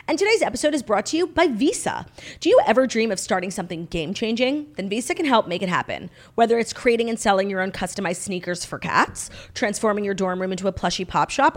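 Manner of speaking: scripted podcast sponsor read; measured, presentational promo delivery. Acted. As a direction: read it as a friendly host-read advert. Reads a sponsor ad.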